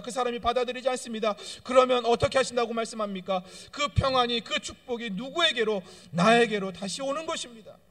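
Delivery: loud, fast, rising sermon delivery; full-force preacher; fervent preaching. Acted. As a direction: press the point home to the congregation.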